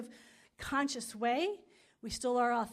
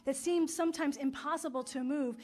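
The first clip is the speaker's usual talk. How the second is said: affirmative prayer; 3 dB louder than usual. Acted. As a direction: pray it out, rising with conviction.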